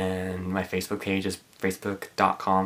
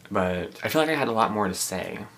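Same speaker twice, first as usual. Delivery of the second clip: talking while eating pretzels; words around a mouthful; mouth full. Real, not acted. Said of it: "Sorry, I'm eating pretzels".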